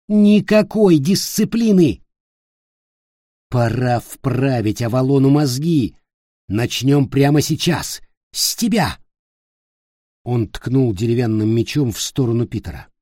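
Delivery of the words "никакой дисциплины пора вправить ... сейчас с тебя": higher, louder enraged yelling; furious shout. Acted. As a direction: bellow it at the boy in rage. Ulfger raging at Peter.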